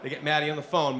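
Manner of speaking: ordinary delivery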